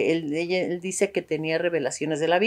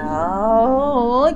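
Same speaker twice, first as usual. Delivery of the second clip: imitated cry; 4 semitones higher, 4 dB louder than usual. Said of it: "con unos gritos así muy feos".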